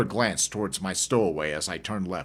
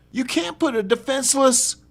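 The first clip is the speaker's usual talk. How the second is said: lightly voiced shaken woman; 3 dB louder than usual. Woman pleads.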